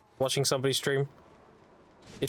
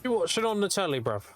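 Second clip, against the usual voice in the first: mock British accent; 3 dB quieter than usual.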